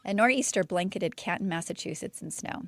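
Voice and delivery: lightly dramatic story narration; storytelling voice. Shown as a demonstration. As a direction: tell it like a campfire tale. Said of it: "Get my storytelling voice on".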